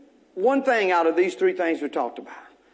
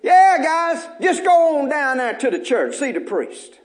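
casual Jesus; 4 semitones higher than usual. Acted. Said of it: "He says, Hey".

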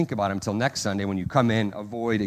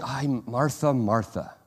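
intimate love; 4 dB quieter, slower than usual. Retold or imitated. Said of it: "with an intimate love".

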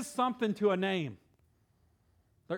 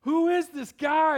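eager curiosity; 10 semitones higher, 9 dB louder, slower than usual. Retold or imitated. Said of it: "He's like".

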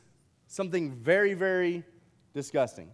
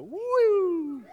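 excited shout; 12 semitones higher than usual. Real, not acted. Preacher flinging the bag to the kids, excited high shout. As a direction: yell it out as you fling it. Second toss at the audience.

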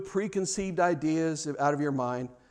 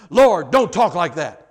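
a loud, slow mock plea from Peter; imitating Peter; 12 dB louder, slower than usual. Preacher voicing Peter scolding Jesus, mock protest. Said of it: "Peter's like".

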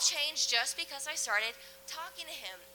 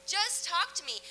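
gentle voice of God; 5 semitones higher than usual. Acted. Preacher voicing God inviting the congregation, gentle call. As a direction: lightly play God calling you near. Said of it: "and he's saying".

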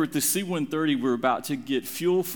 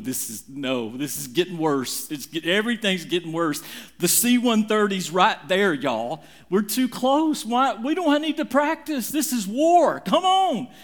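building panic; 4 semitones higher, 4 dB louder than usual. Retold or imitated. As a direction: panic rising until you're yelling at the pilots. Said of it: "I'm going".

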